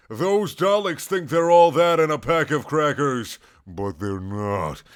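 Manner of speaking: put-on slow, loud sassy child voice; pouty sassy girl. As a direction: drag it out with a sassy pout. Alana's voice, pouting.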